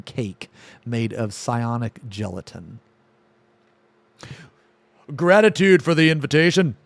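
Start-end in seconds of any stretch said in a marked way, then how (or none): 5.2-6.8 lightly voiced creature, higher, louder and quick; a hint of a many-voiced gurgle; gurgling monster voice. A hint of Ath's gurgle as he thanks the hosts. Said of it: "Ath gurgled in four voices".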